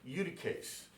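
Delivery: Eutyches said YOO-duh-kays, rising at the end; Latin pronunciation. Shown as a demonstration. Teacher shows the class the Latin pronunciation of Eutyches. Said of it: "that's the way his name is pronounced in Latin".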